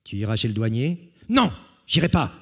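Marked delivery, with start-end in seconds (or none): 1.3-2.3 high, loud, fast whiny no; stubborn refusal. Acted. Jean to the brigands, fast whiny refusal. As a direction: refuse like a sulking child.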